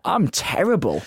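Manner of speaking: usual speaking voice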